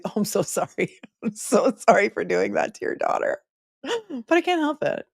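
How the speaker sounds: giggling through a mock sorry; laughing apology. Real, not acted. Host laughing her apology to a viewer's daughter. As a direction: laugh while pretending to apologize. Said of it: "Can't help it. I have to snark".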